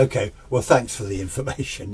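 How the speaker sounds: retold thanks with a touch of sarcasm; understated sarcastic politeness; mildly sarcastic. Thanking the old lady for ghost information, a bit sarcastic. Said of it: "I was being a bit sarcastic".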